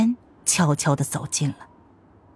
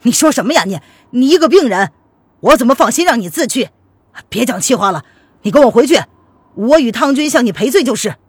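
louder, agitated brother's voice; astonished protest; 4 semitones higher, 6 dB louder than usual. A narrator's reading. Brother hears his sick sister refuse him, astonished. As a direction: protest in surprise, then insist. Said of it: "钱世俊惊奇的道".

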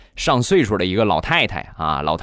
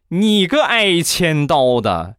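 mock furious scolding; 8 semitones higher than usual. Wife furious after kick.

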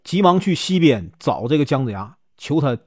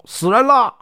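raised, higher-pitched alarm call; crowd cry; 7 semitones higher than usual. A narrator's reading. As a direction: cry out that someone's been killed. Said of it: "众人就大叫". (众人惊叫，音调拔高)

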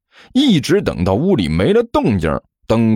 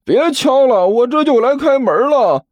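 high-pitched yell toward the door; raised, straining holler; shouting back. A narrator's reading. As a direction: call out to stop the knocking. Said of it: "一边对着外面大声喊道".

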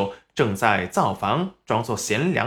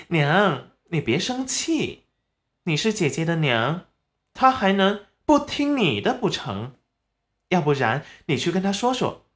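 coaxing; 4 semitones higher than usual. Acted. Acted daughter coaxes her mother.

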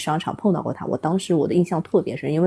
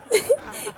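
high giggle. Real, not acted. Laughs before continuing.

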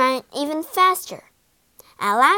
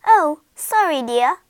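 louder, higher apology; apologetic giant woman; 4 semitones higher, 7 dB louder than usual. A narrator's reading. Giant woman to drenched Jack, lively apology. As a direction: fuss over him apologetically.

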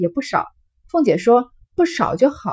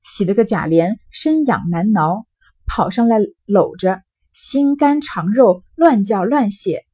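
story narration; 3 dB louder than usual. A narrator's reading. Reading Jia Lian and Ping'er's quarrel to listeners, dramatic storytelling. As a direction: narrate crisply, lightly acting each character's lines. Reads the novel aloud.

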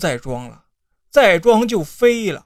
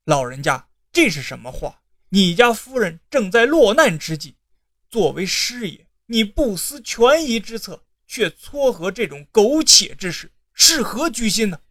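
cold words. Acted. Scholar pretending to rebuke the old advisor, lightly cold. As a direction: put on a cold, proper scolding. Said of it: "但却冷言说".

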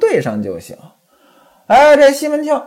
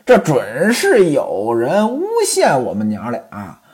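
这准是有人诬陷我们娘俩 said lower with a falling end; coquettish; 4 semitones lower than usual. Acted. Chunmei tells Ximen Qing they were framed, coy and falling. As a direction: let it fall, coy and low. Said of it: "娇滴滴地说".

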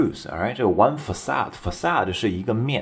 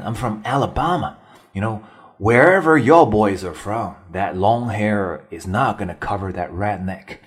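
put-on lighter Southern accent. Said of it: "南方的口音".

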